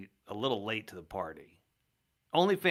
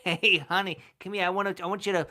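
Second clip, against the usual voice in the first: louder, higher put-on mock Jewish voice; mock accent; 5 semitones higher, 4 dB louder than usual. Co-host joins mocking the researcher in a hammed-up accent. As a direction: ham it up calling honey over. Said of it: "he talks like this?".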